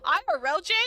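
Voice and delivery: heated venting at the game's heroine; fed up. Real, not acted. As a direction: throw your hands up and switch sides. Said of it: "I give up".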